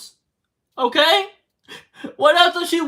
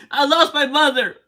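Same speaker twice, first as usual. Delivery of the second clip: real crying. Real, not acted. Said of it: "Me crying right now".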